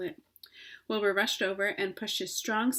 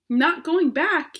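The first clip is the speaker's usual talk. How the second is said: high, loud, slow cry of disbelief; shocked cry; 7 semitones higher, 10 dB louder, slower than usual. Acted. Pig crying out at his dying friend's news, shocked. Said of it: "he cried".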